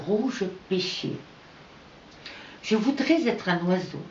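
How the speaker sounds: unhurried poem reading with long pauses; poetry recital. Acted. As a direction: recite it gently paced, phrase by phrase. Reads own poem aloud. (lecture de poème, lente et posée)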